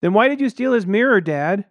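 put-on high, loud kid voice; piping little son. A narrator's reading. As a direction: pipe up and expose Dad. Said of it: "My son piped up".

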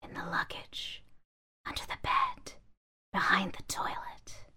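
soft whispered murmur. Acted. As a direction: murmur it under breath. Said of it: "the bags murmured".

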